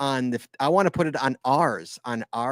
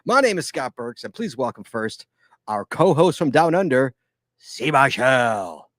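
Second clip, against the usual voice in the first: show-opening announcer; 4 dB louder than usual. Pretend. Host welcoming listeners to the Geocaching Podcast, announcer delivery. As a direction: announce the show and stretch the co-host's name.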